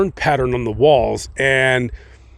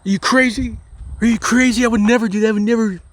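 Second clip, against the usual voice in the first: fake indignant denial; 6 semitones higher, faster than usual. Accused wife protests innocence.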